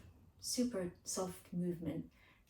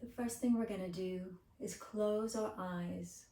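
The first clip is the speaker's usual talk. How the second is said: unhurried guided breathing voice; gentle meditation lead with lingering phrases; guided relaxation. Acted.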